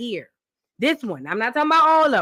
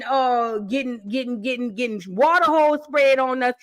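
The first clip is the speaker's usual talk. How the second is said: heated anger. Real, not acted. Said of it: "send me through a rage".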